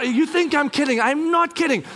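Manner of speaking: high, insistent retort; retold shouting. Dad warning kids he means it, mock shouting. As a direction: insist on it, worked up. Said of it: "And I'm shou".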